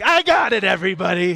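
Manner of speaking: high, loud mock-heroic yell; full Rambo. Security guard charging at the fire with an extinguisher, full Rambo. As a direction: holler it like an over-eager action hero. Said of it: "just full Rambo, like".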